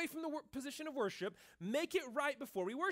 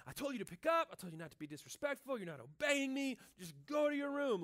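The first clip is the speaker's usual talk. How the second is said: scolding parent; 4 semitones higher than usual. Retold or imitated. Dad to kids who didn't tidy Legos, scolding shout. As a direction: lay down the law at the kids.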